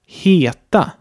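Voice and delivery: Heta with a long, closed E as in Mehl. Shown as a demonstration. Teacher models Heta for learners, exaggerated long E. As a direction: draw out the first vowel of Heta, Swedish style. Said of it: "die Vokale länger sprechen".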